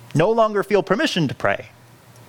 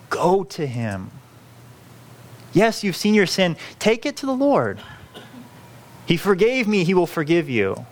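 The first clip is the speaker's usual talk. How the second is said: pleading. Retold or imitated. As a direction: gently urge them to go to God. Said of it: "pleading with the people".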